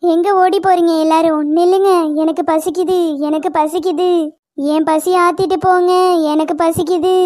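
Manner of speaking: low, menacing moan; cursed doll calling after fleeing people; eerie hunger. Acted. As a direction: drone it low like a hungry ghost. Doll chases them, hungry.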